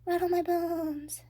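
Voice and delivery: slow, high, loud spooky croak; a parrot playing ghost; slow eerie parrot wail. A narrator's reading. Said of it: "imitation of a spooky voice".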